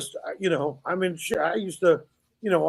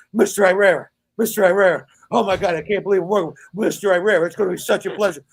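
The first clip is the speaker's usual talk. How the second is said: starstruck fan; 3 semitones higher, 4 dB louder than usual. Retold or imitated. Starstruck kid voiced in a story.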